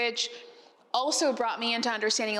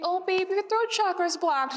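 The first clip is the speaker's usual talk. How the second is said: higher, slow, lightly voiced friend; imitated soothing friend; 8 semitones higher than usual. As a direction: draw it out like a sympathetic friend diagnosing. Voicing friend's sympathetic diagnosis.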